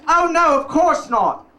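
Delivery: mock innocent high "oh no"; a lightly voiced friend feigning surprise; sarcastic friend. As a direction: play it coy and innocent. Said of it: "She goes".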